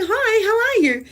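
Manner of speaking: high, chirpy hellos over and over; high sing-song hellos to passers-by; cheery repeated greeting. Retold or imitated. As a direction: keep greeting brightly even with no reply. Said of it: "You just keep saying".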